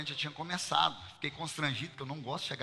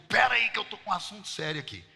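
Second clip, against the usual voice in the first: louder, curt, impatient wait-a-minute; brusque brush-off; 4 semitones higher, 6 dB louder than usual. Shown as a demonstration. How the pastor would answer his wife, curt and louder. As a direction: cut her off like a busy man. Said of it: "assim eu falaria".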